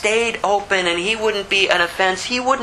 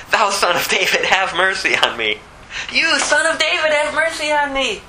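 crying out more; 6 semitones higher than usual. Acted. Blind beggar crying to Jesus, rising to a high plea. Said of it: "He cried the more, a great deal".

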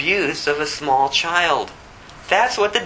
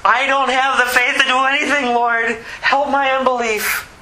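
raised, pleading cry to God; high-pitched plea in prayer; desperate prayer; 7 semitones higher than usual. Acted. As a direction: plead for help as a desperate father. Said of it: "this is what it looks like to pray".

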